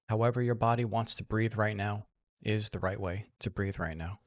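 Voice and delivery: soft, unhurried meditation guidance with long pauses; guided meditation. Real, not acted. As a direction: guide them gently into relaxation, leaving room to breathe.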